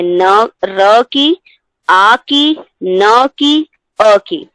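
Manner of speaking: न, र, आ, न, अ each sounded separately; sounds spelled out. Shown as a demonstration. Teacher breaking the word into its sounds for students. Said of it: "इसमें चार ध्वनियां हैं".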